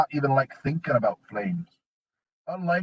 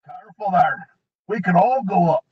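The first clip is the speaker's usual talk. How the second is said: dwarf warning; 5 semitones higher, 4 dB louder than usual. A narrator's reading.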